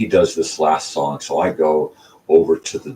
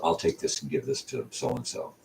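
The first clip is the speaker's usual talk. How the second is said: hushed quote; 8 dB quieter than usual. Retold or imitated. Older woman takes the record.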